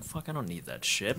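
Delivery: low, soft brush-off; retold dismissive grumble. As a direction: act out a dismissive thought under your breath. Retold dismissive student thought.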